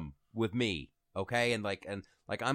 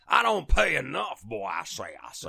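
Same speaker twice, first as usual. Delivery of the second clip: Foghorn Leghorn; 3 semitones higher, 6 dB louder than usual. Retold or imitated. Mocking Warren Buffett on taxes, cartoon Southern bluster. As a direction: open big and loud, then blustering. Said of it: "like Foghorn Leghorn".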